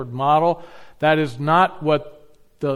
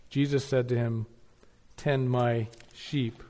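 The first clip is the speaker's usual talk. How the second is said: scripture reading. Acted. Pastor reading scripture to the congregation, measured and solemn. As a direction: read the text to the congregation with weight. Reads the Bible passage aloud.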